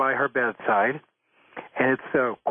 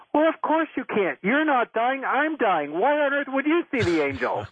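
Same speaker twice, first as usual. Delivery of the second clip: matter-of-fact dying mother; 8 semitones higher than usual. Retold or imitated. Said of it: "the mother turns to her and says".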